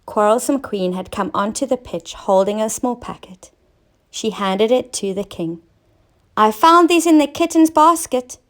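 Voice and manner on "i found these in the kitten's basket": pleased announcement. Acted. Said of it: "she said".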